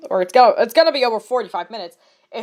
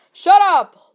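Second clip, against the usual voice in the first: loud, slow roar; loud drawn-out roar to silence everyone; 5 semitones higher, 9 dB louder than usual. A narrator's reading. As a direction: bellow it out, drawn long. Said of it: "Lumpkin roared".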